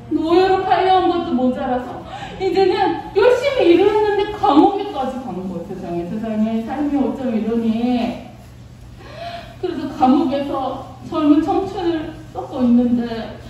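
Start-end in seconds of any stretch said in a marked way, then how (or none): 5.7-8.3 low, slowing, softened pity; mild lament. Acted. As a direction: sigh over a hard fate. Narrator laments Joseph's misfortune. (낮고 느리게 한탄하듯)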